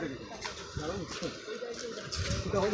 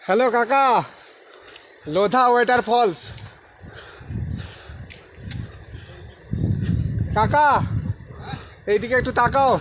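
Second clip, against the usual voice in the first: calling out. Real, not acted. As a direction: shout over the roar of water. Calling to uncle across falls.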